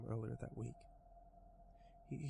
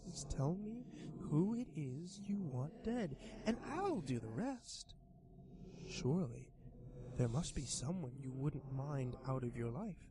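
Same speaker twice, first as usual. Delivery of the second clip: high, slow coaxing monster voice; sly creature voice; 3 semitones higher than usual. Acted. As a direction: tempt him like a grinning demon. Creature lists victims.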